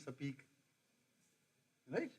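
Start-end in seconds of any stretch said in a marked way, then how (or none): 0.1-0.4 "Sapeek" for speak, a vowel after the s; Punjabi English accent. Shown as a demonstration. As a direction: split the sp of "Sapeek" with a short "a". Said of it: "You go to Punjab, they say".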